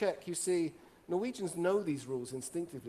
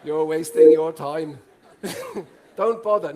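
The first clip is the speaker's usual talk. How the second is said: mocking Norwegians; 12 dB louder than usual. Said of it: "I can see Norwegians doing this".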